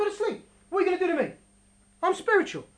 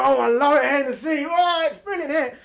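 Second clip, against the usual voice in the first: gleeful skipper; 3 dB louder than usual. Retold or imitated. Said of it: "He was like".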